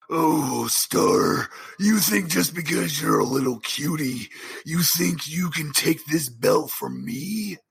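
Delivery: lightly voiced cocky champion; wrestler taunt. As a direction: sneer it like a heel champion.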